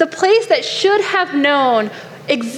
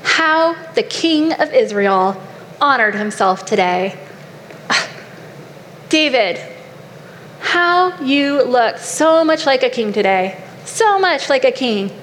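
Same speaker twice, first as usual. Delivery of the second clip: acted sarcastic wife. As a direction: lay on the sarcasm, lingering on the praise. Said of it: "you can almost hear the sarcasm".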